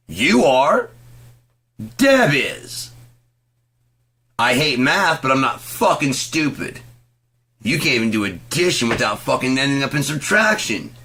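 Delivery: high, loud, furious yelling; furious shouting. Real, not acted. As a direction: rage at him. Furious rant.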